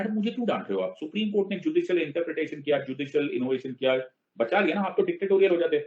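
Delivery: high, quick pleading defence; a pupil talking back, half joking; mock protest. Siddharth protesting to an angry madam, high and fast.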